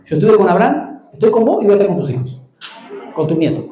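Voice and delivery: a hint of God speaking, solemn and steady; lightly voiced God making his promise. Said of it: "le está diciendo". (voz de Dios, apenas marcada, solemne)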